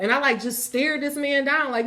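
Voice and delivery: ordinary delivery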